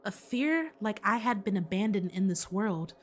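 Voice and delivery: low, hushed narrator reading; game narration voice. Acted. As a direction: read it like an uneasy inner monologue. Reads Hajime's inner monologue.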